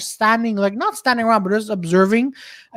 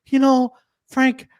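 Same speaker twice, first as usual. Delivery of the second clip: slow, mock-tender movie confession; heartfelt apology; slower than usual. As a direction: draw it out like a sincere film heroine. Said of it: "those heartfelt moments".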